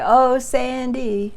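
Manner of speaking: high, loud, very drawn-out call; calling one friend out of the house, loud and slow; calling out a name. Retold or imitated. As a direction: draw the name out slowly, loud and high, across the yard. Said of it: "I'd just say".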